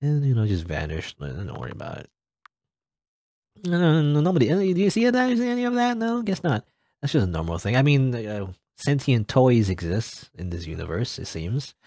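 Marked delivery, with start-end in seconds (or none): 3.7-6.7 high, squeaky questioning voice; high-pitched disbelief. Acted. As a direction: go high and stay there, doubting your eyes. Reacting to a strange sight.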